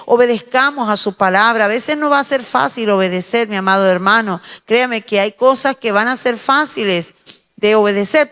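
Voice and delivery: ordinary talk, nothing marked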